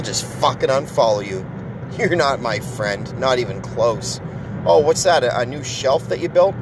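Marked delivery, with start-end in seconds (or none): 4.7-6.5 mocking a friend's Facebook post; mock interest. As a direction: fake enthusiasm for a boring post.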